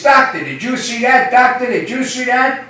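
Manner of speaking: shocked repeat. Acted.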